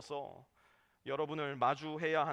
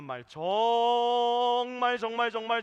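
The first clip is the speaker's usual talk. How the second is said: 말 정말 drawn out very slowly, louder and higher; emphatic repetition; 5 semitones higher, 7 dB louder, much slower than usual. Real, not acted. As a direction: lean hard on each 정말 as a warning. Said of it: "정말 주의하셔서 사용해야 돼요".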